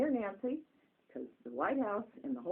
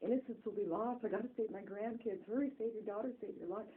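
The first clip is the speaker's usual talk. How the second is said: a father screaming warnings from heaven; frantic warning; 5 semitones higher than usual. Retold or imitated. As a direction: hurry them along in a panic. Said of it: "writing and screaming to Nancy Fox".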